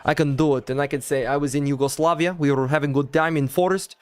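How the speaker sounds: put-on lightly done Balkan accent in English; put-on Yugoslav accent. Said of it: "Do the accent".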